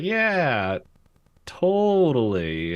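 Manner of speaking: eager agreement. Retold or imitated.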